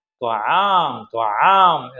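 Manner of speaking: long, falling pretend wail; mock crying. Teacher voicing chicks crying for food, mock crying. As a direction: stretch the word into a slow, mild cry. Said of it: "ആര് കരയുന്നത്".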